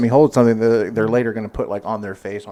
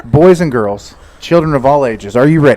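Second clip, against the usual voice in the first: louder ringmaster hype, laughing start; overbright kids party host; 7 dB louder than usual. Pretend. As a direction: pump up a crowd of kids. Hyping guest like a ringmaster.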